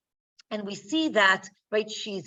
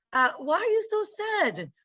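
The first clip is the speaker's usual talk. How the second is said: raised, gentle pleading husband voice; coaxing husband; 10 semitones higher than usual. Retold or imitated. Husband Elkanah gently pleading with weeping Hannah, coaxing.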